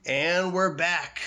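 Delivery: booming back-from-break announcer. Pretend. Mock broadcast return.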